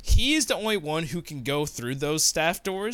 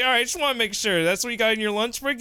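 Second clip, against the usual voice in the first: mock fire marshal voice; 5 semitones higher, faster than usual. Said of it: "he's like".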